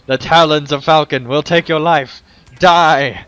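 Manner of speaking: villain threat. Acted. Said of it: "it's just die".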